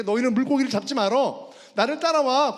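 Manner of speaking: loud preacher's rendering of a command; Jesus calling fishermen. Retold or imitated. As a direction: voice Jesus summoning followers. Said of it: "예수님이 더 이상 어부들에게".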